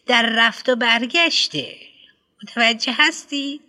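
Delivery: a pompous headmistress lecturing a parent; fussy headmistress. Acted. Headmistress explains to father.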